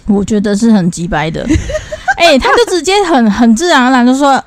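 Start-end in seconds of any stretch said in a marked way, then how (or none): 1.5-2.1 sudden squealing laugh; high burst of laughter. Real, not acted. Host laughing at her cohost's crude remark, high squeal.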